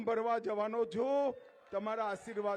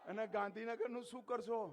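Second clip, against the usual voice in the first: quiet question; 6 dB quieter than usual. Real, not acted. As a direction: ask it softly first, almost to yourself. Speaker repeats the question louder. (ધીમા અવાજે પ્રશ્ન)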